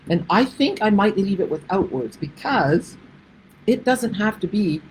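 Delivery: hiccuping mid-sentence; talking through hiccups. Real, not acted. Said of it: "excuse me, I got the hiccups".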